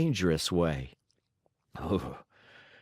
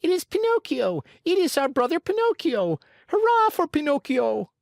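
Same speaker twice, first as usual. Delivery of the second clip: joyful cheering; 5 dB louder than usual. Acted. Marionettes cheering Pinocchio.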